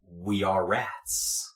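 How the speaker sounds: slow, soft chorus of rats; communal rat voice. Acted. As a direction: speak as one hive voice. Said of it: "a kind of communal".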